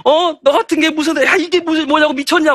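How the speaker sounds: high-pitched exasperated mock rant; lightly acted outraged parent; mock scolding mother. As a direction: imitate a mum tearing into her child. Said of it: "막 그러면 애들이 눈물을 막 쏟았죠".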